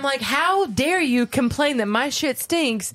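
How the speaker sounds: slow, drawn-out mock outrage; indignant rant. Parent scolding a kid who invaded the bathroom, indignant. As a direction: deliver it slowly, scandalized at the complaint. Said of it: "sorry, I'm yelling".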